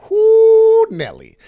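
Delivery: a sudden high, loud whoop; excited whoop. Real, not acted. Host whooping at the VeChain chart, excited. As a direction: let out a big, thrilled whoo. Crypto price spike on chart.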